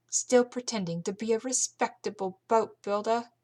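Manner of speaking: Carlotta's line in a slipped, mixed-up accent; wrong accent. Shown as a demonstration. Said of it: "I'm mixing up all my accents".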